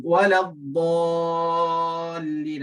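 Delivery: waladdallin slow, dad heavy and held; tajwid recitation. Shown as a demonstration. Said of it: "Dad sebagai contoh". (bacaan perlahan waladdallin dengan dad tebal)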